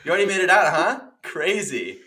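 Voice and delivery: high, loud chatter with laughter; bubbly fan talking through giggles; laughing fan. Retold or imitated. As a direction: fan teases the star about the arrest, laughing. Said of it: "She's like".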